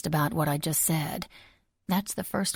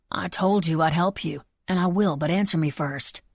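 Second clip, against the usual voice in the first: demanding; 4 dB louder than usual. Acted. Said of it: "Buck demanded".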